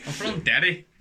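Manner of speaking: loud, high Northern Irish put-on; Northern Irish accent. Shown as a demonstration. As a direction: play it up as broad Northern Irish. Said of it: "You try a Northern Irish accent".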